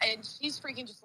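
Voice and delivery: breathless whisper as the words give out; shaken whisper. Real, not acted. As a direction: whisper it, too shaken to finish. Shaken after car crash, voice drops.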